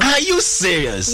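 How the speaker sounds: real disbelief, voice jumps up high; can't believe it, rising question; surprised. Real, not acted. Host reacts to hearing the guest learned English recently, stunned.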